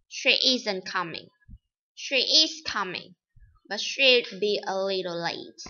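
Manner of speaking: "is" in "She is coming" punched with a falling tone; contrastive stress. Shown as a demonstration. Teacher showing students contrast: "is" stressed. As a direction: hit "is" to contradict "isn't". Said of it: "it is stressed for emphasis or contrast".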